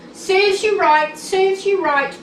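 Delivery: high, loud cross taunt; crossly. Acted. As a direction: scold the trucks in a playful huff. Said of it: "puffed Thomas crossly".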